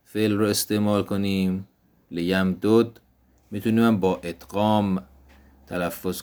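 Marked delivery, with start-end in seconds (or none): 2.1-3.0 لیم دود split as "liyam-dud", two separate d sounds; لیم دود read unmerged, "li-yam-dud"; Arabic without merging. Shown as a demonstration. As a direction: keep both dals apart in لیم دود. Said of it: "فک ادغام بدون ادغام".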